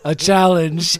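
hammed-up gleeful Mozart; mock delighted Mozart. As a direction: relish the challenge like a cocky prodigy. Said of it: "And he goes".

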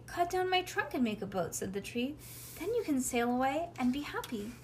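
animated bedtime story, lilting character lines; storybook reading to a child. A narrator's reading. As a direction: read a picture book aloud, lifting the tree's lines. Reads a storybook aloud to child.

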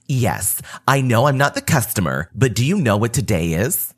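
mildly snarky, a light put-on edge; a hint of a snippy neighbour. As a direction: toss it off with a little sneer. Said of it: "The Karen says in a snarky voice".

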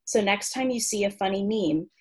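measured, articulate read-aloud of a humorous essay; written entry reading. Acted. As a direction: present it like a comic encyclopedia entry.

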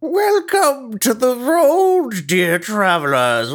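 merchant greeting. Pretend. The speaker does merchant role intro.

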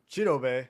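"Chidobe" as CHEE-doh-bay; first-syllable stress. Shown as a demonstration. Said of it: "So that the first syllable, uh, emphasis".

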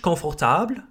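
"confortable" as kon-for-TABL; French pronunciation. Shown as a demonstration. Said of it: "Exactly the same in French".

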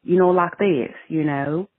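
lightly put-on country accent; a hint of country accent. Shown as a demonstration. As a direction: demonstrate a little country twang. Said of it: "a country accent".

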